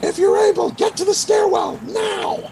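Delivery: high-pitched shout at the top of the voice; bellowing. Acted. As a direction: bellow the order so the whole building hears. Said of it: "he bellows, like, at his, the top of his voice".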